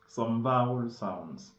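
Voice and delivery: slow repetition for learners; teacher echo; repeat slowly. Shown as a demonstration. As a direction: say it again, carefully paced.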